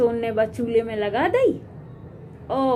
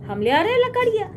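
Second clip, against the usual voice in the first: lightly voiced little mouse, higher and kindly; a small mouse coaxing the bride to stop crying, a touch higher; 6 semitones higher than usual. Mouse consoles the weeping bride, lightly higher.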